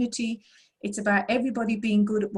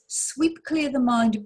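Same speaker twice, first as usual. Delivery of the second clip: slow calm instruction; 3 semitones higher, much slower than usual. Shown as a demonstration. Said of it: "use it".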